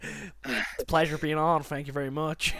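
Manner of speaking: playful over-the-top formal English voice; mock posh English. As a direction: put on a grand formal accent. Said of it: "I wouldn't expect to come on and be like".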